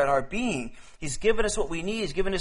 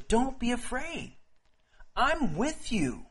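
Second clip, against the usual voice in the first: gentle reassurance; 5 semitones higher, slower than usual. Acted. Preacher voicing God to a frightened believer, slow and soothing. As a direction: speak slowly as God to a fearful believer. God's words of comfort voiced.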